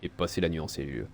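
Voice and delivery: steady reading of the game text; story narration. Acted. Reading the game's story to the viewers, measured narration. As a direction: read it like a novel's narrator.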